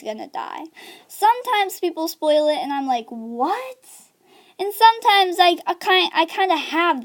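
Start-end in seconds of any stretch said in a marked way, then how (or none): 3.1-3.8 a drawn-out, questioning rise; mock disbelief. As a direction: react as if just hit by a spoiler. Acts reaction to a spoiler.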